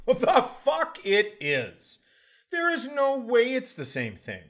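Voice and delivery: laughing through the disbelief; laughing outrage. Real, not acted. Laughing at his sister's audiobook claim, outraged.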